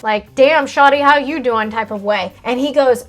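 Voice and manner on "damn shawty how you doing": a lightly voiced sleazy old man calling out. Retelling the old man on the street, a touch of a sleazy catcall. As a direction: hams up a catcall, a bit louder.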